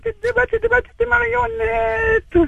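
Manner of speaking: very high, very slow puppet squeak; little puppet voice. Pretend. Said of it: "Tu me prends une petite voix".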